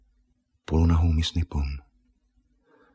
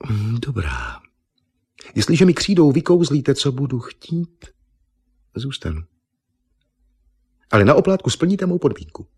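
higher, coaxing then demanding; bargaining Miss Nippon; 7 semitones higher than usual. Acted. Miss Nippon setting her condition, higher and demanding. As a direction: strike a deal sweetly.

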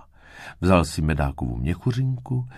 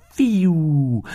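loud, gliding wind whistle; whooshing wind; 11 semitones higher, 6 dB louder than usual. A narrator's reading. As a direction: make a sudden gust of wind. Narrator imitates the gusting wind.

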